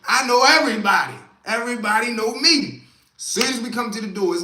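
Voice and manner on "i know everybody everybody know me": higher, louder, cocky inner voice; cocky self-talk; cocky excitement. Retold or imitated. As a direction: think you're famous. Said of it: "I'm like".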